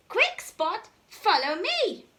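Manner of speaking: high, loud hurry; urgent call. Acted. Dad urgently calls Spot to follow.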